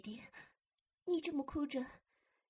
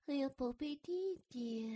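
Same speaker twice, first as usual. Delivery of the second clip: ordinary delivery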